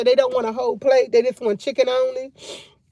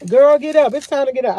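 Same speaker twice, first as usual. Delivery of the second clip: a louder, firm call to get up; loud wake-up call; 3 dB louder than usual. Retold or imitated. Ordering her sleepy sister out of bed, loudly. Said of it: "I be like".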